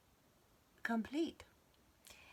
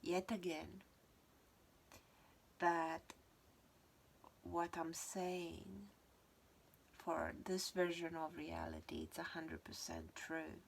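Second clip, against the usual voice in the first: speaking around a retainer; slightly lisped words through a dental retainer; wearing a retainer. Real, not acted. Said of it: "I've got my retainer on if you're wondering why I'm speaking funny".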